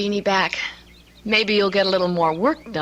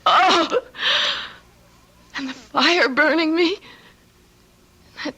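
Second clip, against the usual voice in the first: distraught recounting. Acted. Telling aunt her nightmare, distraught.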